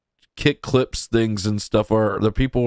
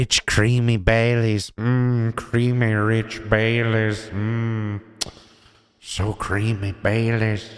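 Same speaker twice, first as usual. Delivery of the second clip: sultry ad voice; slower than usual. Pretend. Ad-style parody of Irish cream.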